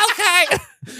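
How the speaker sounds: a small, high-pitched, meek okay; squeaked back to the giant rock star, high and meek; tiny high okay. Retold or imitated. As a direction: answer like a scared kid, pitched high. Meek reply to big rocker.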